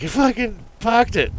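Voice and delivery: imitating the Boston guy from the ad; Boston accent. Ad guy mocked in a Boston accent. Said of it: "talking in Boston accent".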